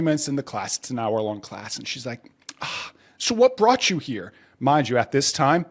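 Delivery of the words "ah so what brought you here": put-on sweet older woman.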